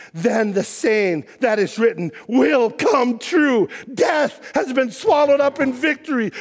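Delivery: booming, slowed pulpit proclamation; fiery sermon voice; full-force preaching. Acted. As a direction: preach it out to the whole congregation.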